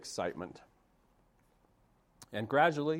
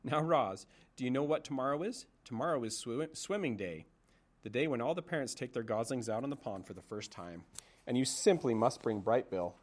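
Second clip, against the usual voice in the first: put-on chatty old goose; 3 semitones higher than usual. Old goose telling Roz about swimming day, chatty.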